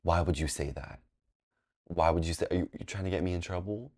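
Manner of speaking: mock teacher confronting at the desk; stern teacher, quietly. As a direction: lean in close and confront quietly. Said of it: "she leaned over and said".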